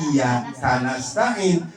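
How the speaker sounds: iya karena stain as iya, kanasta'in; slow, break after iya, ka joins nas; wrong word break. Shown as a demonstration. Teacher repeats the faulty reading, wrong word break.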